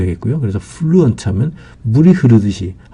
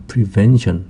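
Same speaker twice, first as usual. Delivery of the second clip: "prevention" with the stress on its middle syllable VEN; much slower than usual. Shown as a demonstration. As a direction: say "prevention" as pre-VEN-tion. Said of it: "when에 강세가 있습니다".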